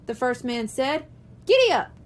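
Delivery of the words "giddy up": loud, high giddy up to the horse; calling to a horse. Acted. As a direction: urge the horse on with a high call. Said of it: "he told his horse".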